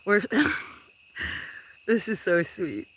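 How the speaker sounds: touched giggle at a sweet message; laughing, touched. Real, not acted. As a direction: melt a little, laugh it out. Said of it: "I'm smiling".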